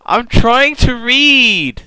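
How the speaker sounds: furious shout, slow and loud. Real, not acted. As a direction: yell at them to shut up. Yelling at noisy others.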